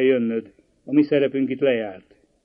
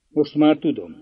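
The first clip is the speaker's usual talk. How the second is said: curt reply; 4 dB louder than usual. Acted. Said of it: "felelte kurtán".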